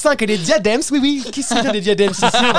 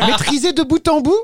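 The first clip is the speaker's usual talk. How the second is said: high, loud mock wail; mock yodel shout; 8 semitones higher, 3 dB louder than usual. Mocking the singer's controlled yodel, with a high mock wail. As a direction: wail it like a yodel gone wild.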